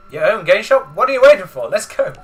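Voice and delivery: a hint of Brooklyn accent, loud; pushy Brooklyn-accented excitement. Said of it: "I really don't want to attempt to do Brooklyn accent".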